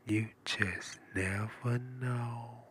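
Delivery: very slow, soft, dragged out; slow drawn-out catchphrase. Acted. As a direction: stretch every word slowly.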